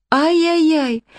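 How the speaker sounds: ай-яй-яй as a high, fully pitiful lament; high wail of pity. A narrator's reading. Distressed owner lamenting.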